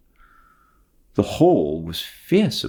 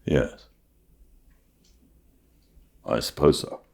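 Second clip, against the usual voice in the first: lower, softer, grudging agreement; reluctant; 4 semitones lower, 4 dB quieter than usual. Acted. Matthew reluctantly agreeing with Marilla, low and soft. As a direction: agree without wanting to. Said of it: "said Matthew reluctantly".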